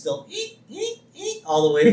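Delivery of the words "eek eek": high mock violin squeak; imitated squeaks. Co-host mimics the lone violinist still playing, high squeaks. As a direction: squeak out little high eeks.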